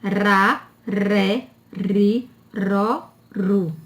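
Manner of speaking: RA, RÉ, RI, RÓ, RU with a tapped R, one at a time; weak R syllables. Shown as a demonstration. Teacher drilling the weak R family, separate tapped syllables. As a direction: tap each R lightly, pausing between syllables. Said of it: "familhinhas com som fraco do R".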